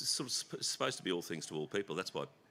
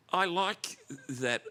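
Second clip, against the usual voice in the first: drawn out; 7 semitones higher, 5 dB louder, much slower than usual. Real, not acted. Slow drawn-out emphasis.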